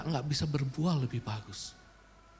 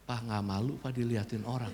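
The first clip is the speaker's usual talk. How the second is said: hushed reminder; 7 semitones lower, 6 dB quieter than usual. Retold or imitated. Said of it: "anak saya ingetin".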